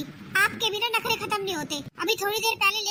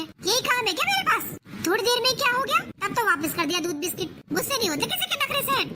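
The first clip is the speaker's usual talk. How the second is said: higher, heated complaint; angry rant; 4 semitones higher than usual. Acted. Daughter rants to mother about the demanding new mother, heated. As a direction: vent the frustration hotly.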